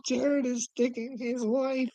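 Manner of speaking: high, slow mock read of the line. Real, not acted. Reading a chat message aloud, high and slow in mockery.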